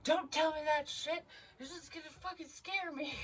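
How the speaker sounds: high-pitched mock yell, imitating him; imitating a friend yelling "don't tell me that shit"; imitating his yell. Friend snaps at her for the health warning, imitated in a high mock yell. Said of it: "And he yells at me".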